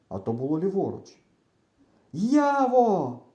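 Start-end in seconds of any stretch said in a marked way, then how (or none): 2.1-3.2 high, loud annoyed call; irritated shout. A narrator's reading. Boy calling his friend, irritated shout. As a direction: shout the name, losing patience. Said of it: "роздратовано кричу я".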